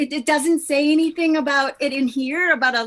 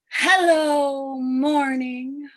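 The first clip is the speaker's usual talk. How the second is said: greeting the morning; much slower than usual. Acted. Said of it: "greet the morning".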